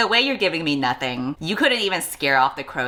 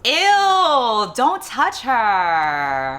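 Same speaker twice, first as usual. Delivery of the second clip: loud, high ew then dragged-out order; disgusted shout at the screen; 7 semitones higher, 4 dB louder, much slower than usual. Real, not acted. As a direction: recoil and yell at the villain.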